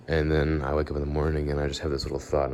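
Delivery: slow, drawn-out sleepy talk; lazy morning pace. Shown as a demonstration. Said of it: "I'm talking like this".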